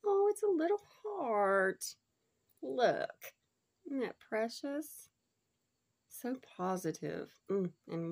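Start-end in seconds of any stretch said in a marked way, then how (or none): 0.1-3.3 very high, cooing over something tiny; cooing delight. Real, not acted. Finding a tiny heart crystal, cooing high. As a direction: coo it like finding a treasure.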